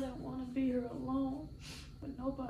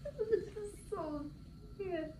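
tearful, choked, breaking voice; blubbering; 5 semitones higher, slower than usual. Real, not acted. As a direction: cry through the words. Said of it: "I'm crying".

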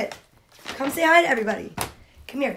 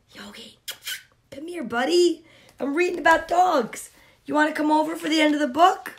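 softer, sweet invitation; coaxing a pet; 2 semitones higher, 4 dB quieter, faster than usual. Real, not acted. Reader calling the dog over to the book, soft coaxing.

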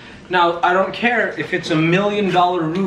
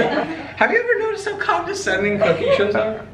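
raised, brighter retake with a laugh; higher retake; 13 semitones higher than usual. Shown as a demonstration. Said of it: "it gives you a better".

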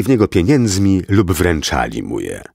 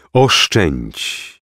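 fading spirit plea. Acted. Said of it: "głos opuszczającego go ducha".

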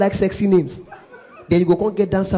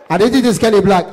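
mildly raised, excited phone voice; retold excited shout; 4 dB louder than usual. Comedian answering the president's call, raised excited voice. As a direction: answer the president a little too loudly. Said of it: "Don't shout at my other here".

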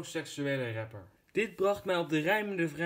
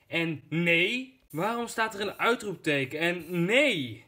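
loud, higher indignant protest; indignant outburst; 3 semitones higher, 5 dB louder than usual. Acted. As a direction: protest loudly, offended. Indignant at exclamation mark. (luid verontwaardigd)

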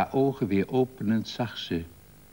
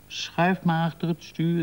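higher-pitched coaxing call; 9 semitones higher than usual. A narrator's reading. Woman urging her lover to drive, calling out. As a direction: urge him on, voice raised in pitch. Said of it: "riep ze".

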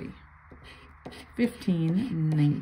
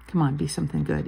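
ordinary delivery

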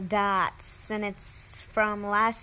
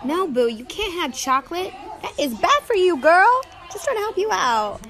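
higher, louder pet-talk with swooping pitch; cooing scolding; 6 semitones higher, 5 dB louder than usual. Real, not acted. Owner refusing boo chocolate, in a cooing scold.

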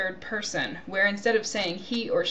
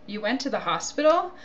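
hospital? with rising question tune; echo question rise; 3 semitones higher than usual. Shown as a demonstration. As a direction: ask it back with surprise, rising at the end. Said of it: "I use question intonation".

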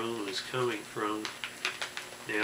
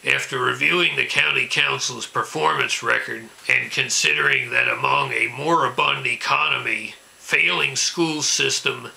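angry ranting caller; 7 dB louder than usual. Acted. Ranting local political caller impression.

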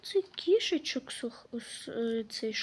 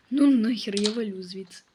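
loud startled outburst; loud bail-out; 3 semitones lower, 8 dB louder than usual. Real, not acted. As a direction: yell that you're getting out. Repeats the bail-out. (гучно, налякано)

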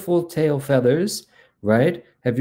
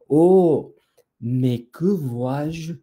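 high "oh", then slow wonder; surprised discovery; 3 semitones higher, much slower than usual. Acted. The peacock spots something behind his tail, surprised. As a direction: draw it out as something comes into view.

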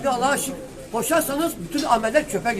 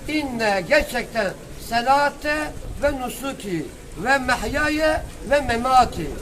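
Quran recitation; slower than usual. Acted.

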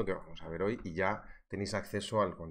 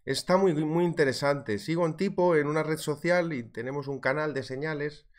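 higher, louder, rambling brag of a clueless trader; mock clueless trader; 5 semitones higher, 4 dB louder than usual. Streamer parodying a newbie trader bragging, mock proud. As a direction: play the proud newbie who loses money. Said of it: "Es verdad que dices que".

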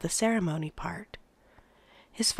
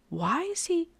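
alarmed, higher question; 10 semitones higher, 3 dB quieter than usual. A narrator's reading. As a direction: blurt it out in alarm. Boy alarmed at needle.

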